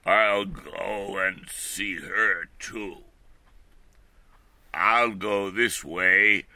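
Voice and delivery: slow, sly wolf voice; a lightly voiced sly wolf. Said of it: "said the wolf".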